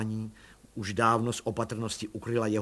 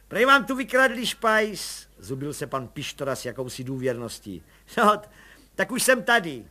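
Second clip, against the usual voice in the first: much higher chummy busybody voice; cheeky little policeman; 5 semitones higher, 7 dB louder than usual. Acted. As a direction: play the eager nosy constable. Pištora voice.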